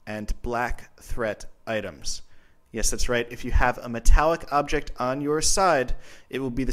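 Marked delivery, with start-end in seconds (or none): 0.1-2.2 slow emphatic repeat. Shown as a demonstration.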